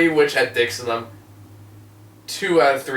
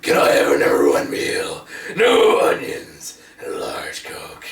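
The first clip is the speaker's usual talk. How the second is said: drive thru speaker; 11 semitones lower, slower than usual. Pretend. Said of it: "drive-through speakers".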